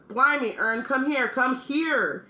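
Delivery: high-pitched, urgent character shout; excited shout. A narrator's reading. Stan calls Ern over to look, excited shout. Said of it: "Stan shouted".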